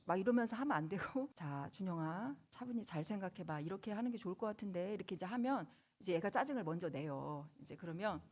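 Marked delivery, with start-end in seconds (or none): 1.4-4.9 calm and respectful. Retold or imitated. Mother calmly coaxing her stubborn son Junyoung. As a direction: settle him down gently. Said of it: "끝까지 존중하는 태도로".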